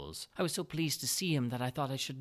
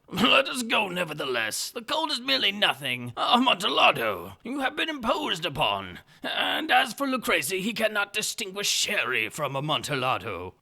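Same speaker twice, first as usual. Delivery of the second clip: much higher, much louder incredulous outburst; astonished Fortunato; 10 semitones higher, 10 dB louder than usual. Acted. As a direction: cry out in disbelief, stretching impossible. Fortunato insists on going.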